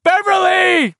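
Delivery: shouting. A narrator's reading. Bill calling again for Beverly, loud shout. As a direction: call out into the darkness. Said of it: "he shouted again".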